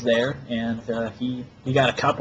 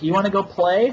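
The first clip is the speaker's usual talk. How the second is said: higher, sing-song come-on; mock flirty stripper; 8 semitones higher, 3 dB louder than usual. Imitating the stripper inviting him to play, flirty and higher. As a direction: tease it like a bored stripper.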